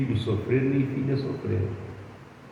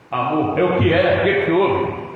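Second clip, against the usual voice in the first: irritated snap; 3 semitones higher, 6 dB louder than usual. Retold or imitated. Wife snapping at husband.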